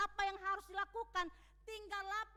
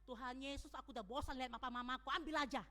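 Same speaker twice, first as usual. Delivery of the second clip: put-on rushed, fed-up child's prayer, lower; careless wrong prayer; 4 semitones lower, much faster than usual. Shown as a demonstration. The wrong way a child prays to Jesus about parents, fast fed-up toss-off. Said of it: "hati-hati berdoanya".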